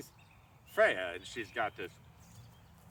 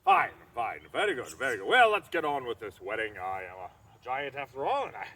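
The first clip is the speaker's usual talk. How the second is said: louder, booming giant agreeing; giant king relenting; 6 dB louder than usual. Acted. Thrym gives up and hurries the wedding along. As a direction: bluster on, brushing it aside.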